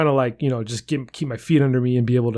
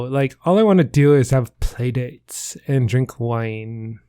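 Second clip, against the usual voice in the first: mock influencer mom; slower than usual. Mocking influencer moms together.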